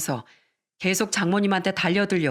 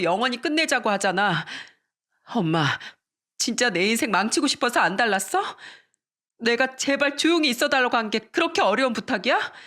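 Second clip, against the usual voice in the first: retold yelling; 3 semitones higher than usual. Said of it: "장모님한테 소리를 지르더라고요".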